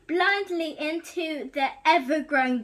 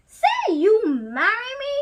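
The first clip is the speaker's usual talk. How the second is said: higher, louder demand; Gaston demanding; 6 semitones higher, 6 dB louder than usual. Acted. Gaston demanding Belle marry him, louder. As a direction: puff up and demand it. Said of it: "he said".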